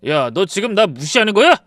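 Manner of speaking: loud, rising angry question; husband shouting at his wife. Retold or imitated. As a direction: snap it at her. Husband yells.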